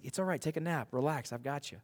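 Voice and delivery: softly spoken comfort; gently reassuring. Acted. God to a worried disciple, gently reassuring.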